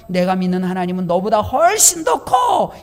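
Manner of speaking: loud, defiant shout at the world; bold proclamation. Acted. Preacher shouting at the world to proclaim a bigger God, defiant. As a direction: declare it like a battle cry. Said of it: "선포하고 이야기하며".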